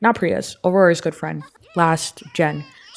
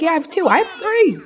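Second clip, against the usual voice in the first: put-on child voice; 10 semitones higher, 3 dB louder than usual. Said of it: "she's like".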